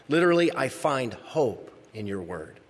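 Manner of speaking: hope leaned on, held a touch longer; stress on hope. Shown as a demonstration. Pastor explaining the verse to the flock, stressing hope. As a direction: press the word hope home. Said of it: "I emphasize the word hope".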